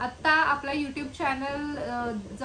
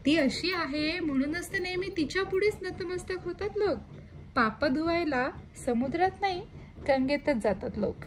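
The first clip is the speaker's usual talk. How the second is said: poem recital; 2 semitones higher than usual. Acted. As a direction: let each line settle, gently recited. Poem closing lines.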